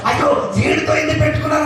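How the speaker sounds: high-pitched mock regret; regretful enemy. Preacher voicing the enemy regretting the fight, mock dismay. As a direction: voice a foe's dismayed second thoughts, high. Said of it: "అనుకుంటాడంట".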